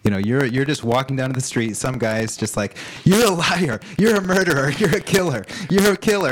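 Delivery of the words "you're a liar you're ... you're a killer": high, loud chanted accusations; mock accusing yell. Heckler yelling accusations at a passerby, loud mock shouting. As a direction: yell it at a stranger like a street heckler.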